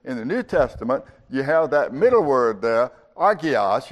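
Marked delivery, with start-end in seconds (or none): 3.2-3.9 agios begun on the vowel, no hard H; silent H. Shown as a demonstration. Teacher showing the Greek word, agios with its H dropped. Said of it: "You really don't pronounce that H".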